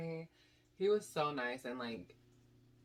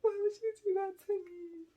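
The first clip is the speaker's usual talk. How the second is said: very high squealed lament, louder; mock wailing; 6 dB louder than usual. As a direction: imitate a drunken, tearful screech. Drunk, crying confrontation acted out.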